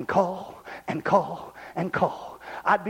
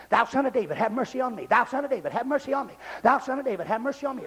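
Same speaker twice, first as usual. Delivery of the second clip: same line looped without a break; stuck record; faster than usual. Retold or imitated. Blind man calling over and over, like a stuck record. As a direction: repeat it mechanically, each time alike. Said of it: "like a stuck record".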